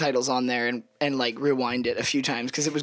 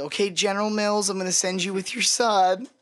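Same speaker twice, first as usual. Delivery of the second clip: put-on slightly higher, talking down as if to a child; mock-condescending officer humoring a naughty child; 4 semitones higher than usual. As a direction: imitate someone patronizing a grown man. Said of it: "She's all condescending, like, talking to, like, a child".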